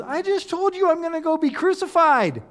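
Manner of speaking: high, incredulous rebuke; a touch of disbelief at their priorities; exasperated Jesus. Retold or imitated. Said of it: "what he's saying is".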